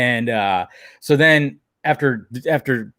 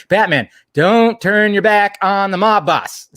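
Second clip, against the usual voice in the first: slow, loud, raised-pitch mock villain; mob boss threat; 8 semitones higher, 5 dB louder, slower than usual. Mob boss pulling a rifle on Batman, hammy slow warning. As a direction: declaim it word by word, hammed-up menace.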